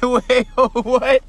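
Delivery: very loud, high, laughing disbelief; retold disbelief. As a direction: blurt it out aghast, half laughing. Retells shock at being jailed.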